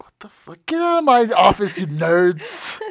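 high, loud angry boss; gravelly old tycoon. Retold or imitated. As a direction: yell like a cranky old boss. Imitating angry boss Regal.

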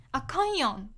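Kansai accent on あかんやん; 関西弁. Shown as a demonstration. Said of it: "関西では使いますね。". (関西弁の抑揚で「あかんやん」)

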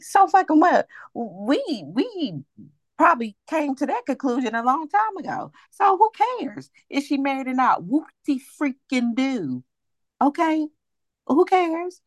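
high-pitched incredulous scoff; exasperated. Real, not acted. Exasperated rant about Kimmy's marriage.

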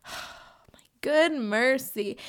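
slow, breathless whispered exasperation; drained whisper at a stuck upload; exasperated whisper. Retold or imitated. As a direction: let it out slowly under your breath, worn out.

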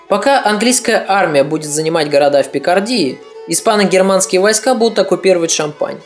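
usual speaking voice

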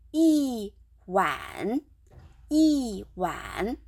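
一碗 read with 一 as yì, falling fourth tone, not yī; tone change on 一. Shown as a demonstration. Teacher showing learners how 一碗 is read, 一 as falling yì. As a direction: say 一碗 as yì wǎn, 一 dropping sharply. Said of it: "so it is read".

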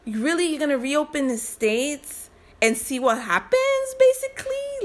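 incredulous. Real, not acted. Incredulous at reopening plan.

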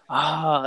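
half-hearted scream retelling the friend's cry; mock scream. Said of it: "and he was screaming".

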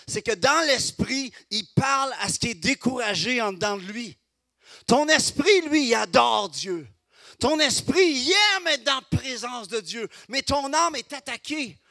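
loud, high-pitched preaching at full force; fiery preaching. Acted. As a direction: preach it out to the congregation.

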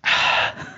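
breathy exhale after a sip; while sipping a drink. Real, not acted. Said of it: "Bentar minum dulu yuk".

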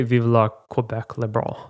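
slow, careful French reading of "Vive la Quebec libre"; French pronunciation. Shown as a demonstration. Host asking how to say it in French, careful French. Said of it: "How would you say".

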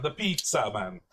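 a hammed-up hint of an Italian accent; mock Italian accent. Tourist faking an Italian accent at the waiter, mock Italian accent. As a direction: lean on a cheesy fake Italian lilt. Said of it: "an Italian twinge on it".

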